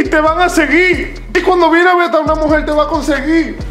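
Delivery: laughing. Real, not acted. Laughing about the benefits.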